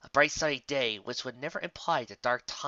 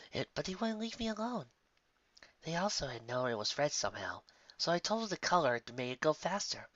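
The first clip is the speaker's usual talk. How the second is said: softer, shaky near tears; nervous explanation; 4 dB quieter than usual. Acted. Sandalwood explains herself, softly and near tears. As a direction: explain fast before she snaps. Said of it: "did her best to explain".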